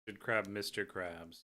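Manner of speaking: talking through a bite; chewing while speaking; mouth full. Real, not acted. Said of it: "Sorry, I'm eating".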